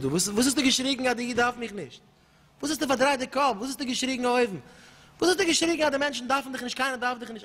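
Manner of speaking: storming rebuke, voice climbing high; angry rebuke. Acted. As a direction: demand an answer, outraged.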